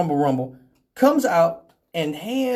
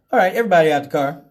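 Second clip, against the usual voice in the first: stern order; 6 dB louder, much faster than usual. Retold or imitated. Cop orders them out.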